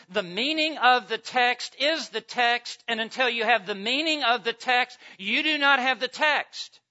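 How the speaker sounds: loud, high, emphatic pulpit delivery; full-force preaching. Real, not acted. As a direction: drive the quotation home to the congregation.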